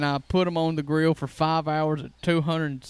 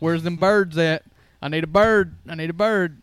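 hammed-up hunt for a turkey in the aisles; silly bird hunter; 5 dB louder than usual. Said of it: "I'm just being silly".

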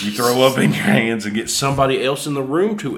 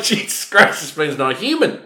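high, loud laughing shock; laughing disbelief; 8 semitones higher, 5 dB louder than usual. Retold or imitated. Watching the guy eat it like soup, high laughing disbelief. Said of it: "I was like".

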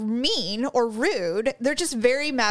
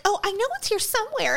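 flustered customer; 9 semitones higher than usual. Retold or imitated. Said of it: "they'd be like".

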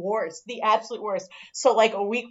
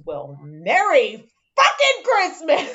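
mock bitter; 4 semitones higher, 3 dB louder, slower than usual. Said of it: "looks at me and goes".

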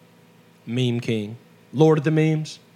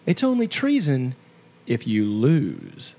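dramatic punchline; 3 semitones higher than usual. Acted. Mock patriotic punchline.

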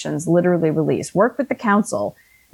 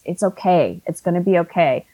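self-comfort. Retold or imitated. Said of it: "energetic hug".

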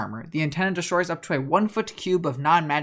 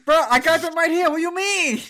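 higher, louder mock-offended protest; mock indignant; 13 semitones higher, 5 dB louder than usual. DM as succubus mock-offended about her wings. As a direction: act insulted, voice jumping up.

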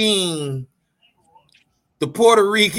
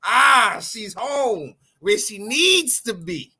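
overjoyed; 4 semitones higher than usual. Acted. Celebrating holding the belt.

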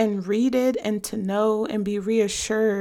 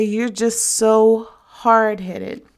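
quoting mother; 6 dB louder, slower than usual. Retold or imitated. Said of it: "my mother used to always say".

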